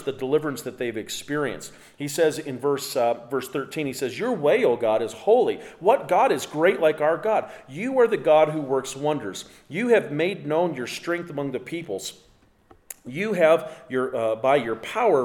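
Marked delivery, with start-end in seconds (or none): 4.2-15.2 raised, emphatic scripture reading; declaimed praise. Acted. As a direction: proclaim the psalm's praise to God. Reads the psalm's praise.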